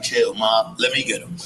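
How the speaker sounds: low calm voice settling a dog; quiet deep imitation of the owner; imitating a rapper calming the dog. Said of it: "he's like".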